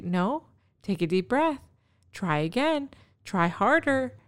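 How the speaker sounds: patient coaching. Retold or imitated. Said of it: "look at him in the eye and say".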